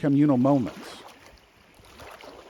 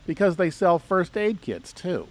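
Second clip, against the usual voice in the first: sarcastic. Acted. Guide recommending the hatchet and matches store to visitors, mildly sarcastic. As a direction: lay on a touch of dry sarcasm. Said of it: "Did I say that with enough sarcasm?".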